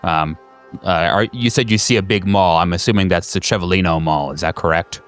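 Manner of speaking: lightly voiced dispatcher confirming a location; agency phone operator. Operator checks the caller's location.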